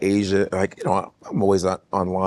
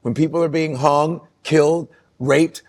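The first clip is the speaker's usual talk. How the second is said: heated rant; 3 semitones higher than usual. Real, not acted. Rant about respect for culture.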